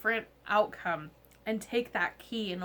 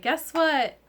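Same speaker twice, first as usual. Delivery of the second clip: determined; 5 dB louder than usual. Retold or imitated. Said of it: "be like".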